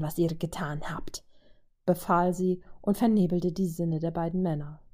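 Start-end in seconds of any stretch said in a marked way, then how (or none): 0.0-1.2 hushed, voiceless command; commanding whisper. Acted. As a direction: breathe the order out like a spell. Vajo commands the two men.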